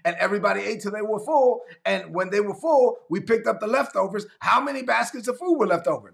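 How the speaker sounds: high, incredulous questioning; exasperated rebuke. Retold or imitated. Jesus questioning the disciples about the leftovers, exasperated. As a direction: press them in disbelief. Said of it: "And they said".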